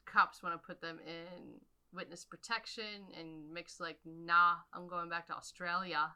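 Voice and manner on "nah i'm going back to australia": put-on Australian accent. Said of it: "do the rest of this in Australian accent. It's so good".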